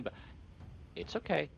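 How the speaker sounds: softly spoken, gentle in-character reassurance. Acted. Craren reassuring Zindra at the door, softly. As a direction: say it gently, just a little softened. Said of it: "ever so softly, just saying".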